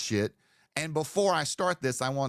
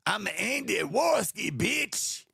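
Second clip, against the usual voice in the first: mock shout; 7 semitones higher, slower than usual. Parody of a singer's famous quote.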